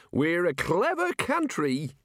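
put-on high, slow, booming old wizard; hearty old wizard. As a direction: savour the bracing air grandly. Arch-Chancellor proud.

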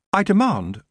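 high, imperious elf; high-voiced demand; demanding Nightshade. A narrator's reading. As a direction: attempt a haughty command, pitched high. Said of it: "Nightshade tried".

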